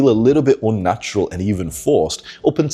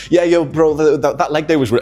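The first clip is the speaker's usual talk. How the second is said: higher, louder lad chatter; friend's imitation of him; 8 semitones higher, 4 dB louder than usual. Friend mimics him chatting about leg day, higher bro voice. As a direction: imitate a guy's loud gym-bro chat. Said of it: "he was imitating me".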